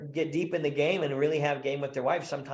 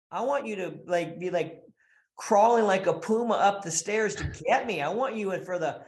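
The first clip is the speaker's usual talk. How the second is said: pleading guy; 5 semitones higher than usual. Acted. Husband begging his wife to want him, mock pleading. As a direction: plead like a needy husband, hammed up.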